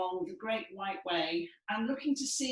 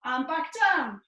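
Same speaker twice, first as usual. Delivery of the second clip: voice sliding down; 6 semitones higher, 8 dB louder than usual. Shown as a demonstration. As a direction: ride the elevator down with your voice. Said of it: "bring your voice down".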